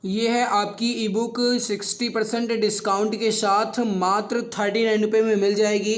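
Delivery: ordinary talk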